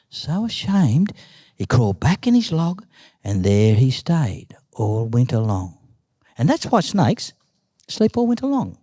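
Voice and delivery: animated oral storytelling with swooping pitch; story narration. A narrator's reading. Uncle tells Nan's snake story, animated storytelling. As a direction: tell it like a yarn, acting out each move.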